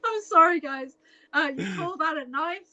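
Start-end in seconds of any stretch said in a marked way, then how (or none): 1.3-2.7 Paul Hogan impression. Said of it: "I sounded like Paul Hogan".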